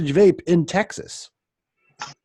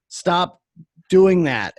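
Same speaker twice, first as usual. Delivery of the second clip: higher, emphatic retold demand; firm, raised-pitch protest; exasperated urging; 4 semitones higher, 4 dB louder, slower than usual. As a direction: tell the boss off, mildly exasperated. Staff arguing with boss, retold.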